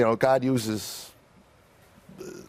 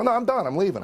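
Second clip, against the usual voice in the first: retold defiance; 10 semitones higher, faster than usual. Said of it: "this is when I lost it".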